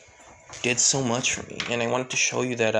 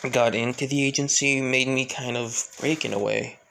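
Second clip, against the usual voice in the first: subdued confession. Acted. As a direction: let the hard past weigh each word. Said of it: "Alexis just looking down".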